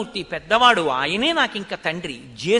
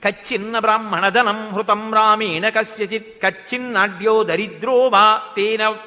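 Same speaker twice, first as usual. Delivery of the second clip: shloka recitation; 3 dB louder than usual. Acted. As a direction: intone the shloka like a pravachanam. Sanskrit verse sung. (శ్లోక పఠనం, నెమ్మదిగా గట్టిగా)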